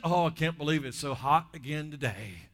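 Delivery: mild put-on grumble; mock complaining. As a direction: gripe lightly, as if fed up. Acted grumbling about sunny weather.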